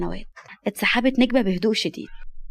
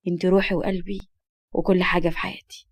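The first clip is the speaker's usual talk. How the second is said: tender declaration; 2 semitones lower than usual. Acted. Man telling the girl she is his life, tender.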